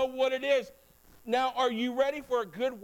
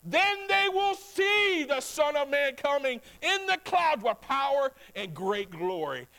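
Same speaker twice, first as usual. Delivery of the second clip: proclaiming scripture; 2 semitones higher, slower than usual. Acted. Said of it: "Jesus said in verse twenty-seven".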